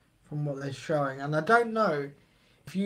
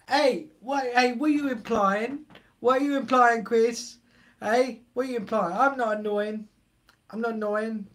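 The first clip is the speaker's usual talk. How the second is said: raised, playful hey what are you implying; mock indignation; 4 semitones higher, 3 dB louder than usual. Streamer to chatter Chris, mock offended protest. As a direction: act offended for a laugh.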